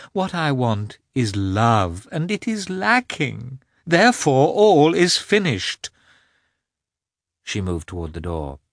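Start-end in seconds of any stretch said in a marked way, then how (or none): 0.1-5.9 slow, much higher and louder declaration; final outburst. A narrator's reading. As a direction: lay it down slowly and climbing, a last verdict. Anna's final declaration in quarrel.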